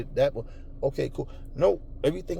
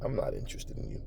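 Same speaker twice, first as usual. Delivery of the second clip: soft brush-off; 12 dB quieter than usual. Retold or imitated. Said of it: "If I say".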